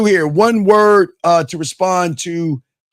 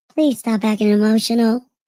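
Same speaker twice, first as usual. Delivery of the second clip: higher female voice; 4 semitones higher than usual. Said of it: "in your woman voice one time".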